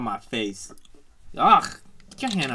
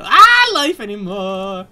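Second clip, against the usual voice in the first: slow, louder despairing groan; drawn-out despair; 4 semitones higher, 9 dB louder, much slower than usual. Real, not acted. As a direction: stretch out the hopeless words. Despairing over failed jump.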